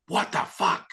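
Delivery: high-pitched startled exclamation; retold shocked outburst. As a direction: act out her shock, pitch leaping up. Retold friend's shock at healing.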